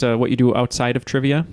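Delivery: put-on slipping into a Canadian accent; light Canadian accent on outside. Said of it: "I said that in a Canadian accent".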